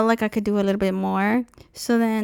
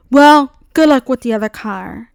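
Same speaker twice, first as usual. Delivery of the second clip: mild mock pissed; 2 semitones higher, 8 dB louder than usual. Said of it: "got fucking pissed off and he was like".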